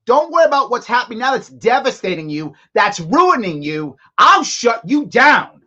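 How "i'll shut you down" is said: slow, louder mock threat; a dad laying down the law, word by word; imitating the governor as a stern father; threatening dad. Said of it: "That's what he just said".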